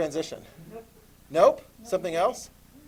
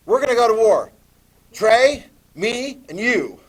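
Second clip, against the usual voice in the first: excited call to war; 6 semitones higher, 9 dB louder than usual. Acted. Teacher stages a war game.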